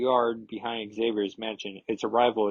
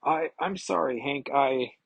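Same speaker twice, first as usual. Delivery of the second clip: crying; 4 semitones higher than usual. Retold or imitated. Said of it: "Carol's just crying".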